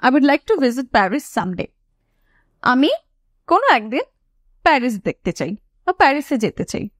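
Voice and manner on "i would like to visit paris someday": slowed, smooth run-through; slow whole-sentence model. Shown as a demonstration. Teacher repeating the sentence slowly for students. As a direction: read it through slowly in one go. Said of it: "okay".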